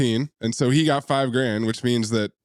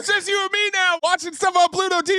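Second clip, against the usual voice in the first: imitating Joshua; faster than usual. Mocking Joshua's voice.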